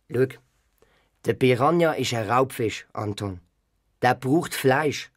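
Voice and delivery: serious grandpa. Acted.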